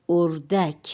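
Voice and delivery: اردک as "or-dak", both syllables distinct; careful pronunciation. Shown as a demonstration. Teacher asks learners to notice the word, careful pronunciation. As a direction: model اردک carefully with a clear final "dak". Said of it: "تلفظ پہ غور کرے".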